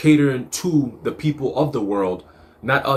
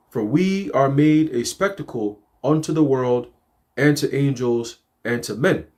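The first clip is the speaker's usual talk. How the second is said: slow, measured scripture reading; slower than usual. Acted. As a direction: read each verse slowly and solemnly.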